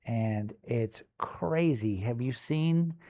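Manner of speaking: puppy voice, wide-eyed and giddy; excited puppy voice. Retold or imitated. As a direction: gush like an amazed puppy. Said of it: "You were just like".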